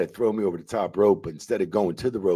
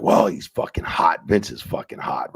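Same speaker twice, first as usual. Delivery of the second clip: mock promo. Boss mock-cutting a promo on a wrestler. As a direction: ham up the boss's promo lightly. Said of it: "Cutting a promo".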